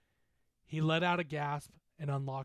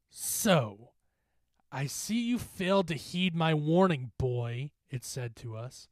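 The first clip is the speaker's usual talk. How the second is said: louder, deliberate gloating; menacing specter; 3 semitones higher, 5 dB louder than usual. Acted. Specter warning the boy their time has come, menacing. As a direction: pronounce their doom with relish.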